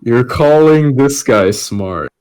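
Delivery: normal talking voice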